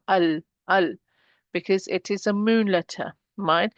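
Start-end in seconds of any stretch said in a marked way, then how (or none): 0.1-0.9 "al, al" with a clear L; lam pronounced. Shown as a demonstration. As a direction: sound the L fully in each "al". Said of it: "I'm pronouncing the lam".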